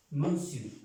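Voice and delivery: "Monsieur" said as "monsu", French style. Shown as a demonstration. Teacher modelling the French "Monsieur". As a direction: give a crisp "Monsieur". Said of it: "Señor en francés es".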